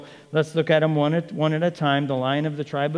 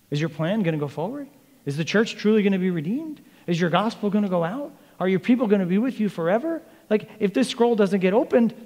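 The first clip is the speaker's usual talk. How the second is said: mildly acted worry, questions rising higher; pleading questions, lightly panicked; freaking out; 5 semitones higher than usual. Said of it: "And it freaks him out".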